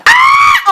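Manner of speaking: very high, loud fangirl scream. Acted. Reader reacting to a very sensitive moment, scream. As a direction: let out a piercing excited squeal. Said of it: "I just screamed".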